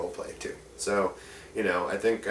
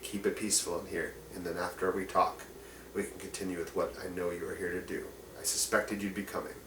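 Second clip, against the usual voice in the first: lower, softer voice of a humble orc man; a soft, low plea from an orc elder to strangers; orc man pleading; 4 semitones lower, 8 dB quieter than usual. Acted. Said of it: "he turns to you and says".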